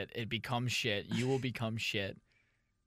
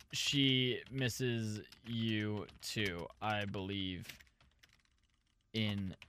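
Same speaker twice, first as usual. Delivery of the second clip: earnest and soft; 3 semitones lower, 4 dB quieter, much slower than usual. Pretend. Reading own comment tenderly.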